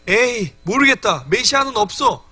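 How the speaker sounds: mock giving up on waiting; imitated fed-up dismissal; dismissive. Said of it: "하나님을 멸시하고".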